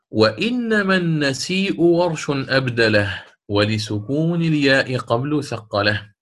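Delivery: slow chanted poem line; verse recitation. Shown as a demonstration. Teacher recites the next verse of the poem, chanted. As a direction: chant the rhyme line slowly.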